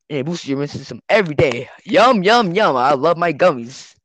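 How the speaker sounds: bright, overeager commercial voice; cheerful ad read. Pretend. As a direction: sell the gummies like a TV ad. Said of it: "as we play you our ad".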